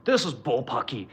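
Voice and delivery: lightly hammed-up outraged pundit; mock angry TV host. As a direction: parody a huffy cable news anchor. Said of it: "they're like".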